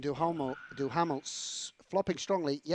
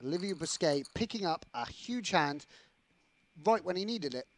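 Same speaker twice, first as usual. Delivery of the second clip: measured play-by-play recap; sports commentator delivery; commentary voice; 2 semitones higher than usual. Real, not acted. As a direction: sum up the hand like a sportscaster. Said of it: "That was my commentary voice".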